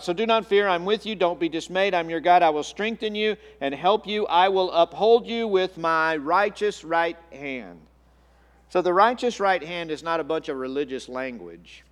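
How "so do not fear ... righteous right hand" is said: louder, proclaiming scripture read; full-voiced pulpit reading of Isaiah. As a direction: declare the verse over the congregation. Reads Isaiah scripture again.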